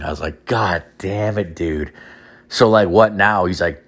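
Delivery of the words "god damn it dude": resigned groan. Retold or imitated. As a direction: say it like you've given up. Same phrase, resigned repeat.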